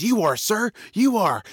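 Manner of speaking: high, deferential snake reply; answering snake. Acted. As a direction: answer the lion as a submissive snake. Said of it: "The snake says".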